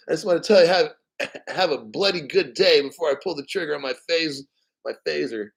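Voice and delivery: light mock Australian accent, laughing; joking Australian threat with a giggle; Australian Doctor Spock. Streamer plays an Australian Spock threatening with a phaser, mock Australian accent. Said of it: "an Australian Doctor Spock".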